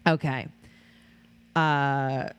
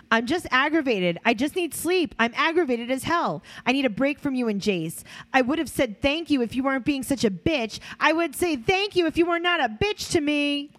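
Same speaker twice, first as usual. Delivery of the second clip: mock irritated rant; 7 semitones higher than usual. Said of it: "Oh, Janelle".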